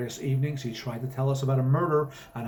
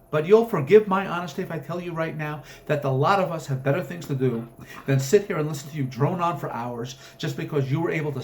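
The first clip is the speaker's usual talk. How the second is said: building scolding; 3 semitones higher than usual. Acted. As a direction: lose patience and lay down the law. Friend's rant rising to a scolding.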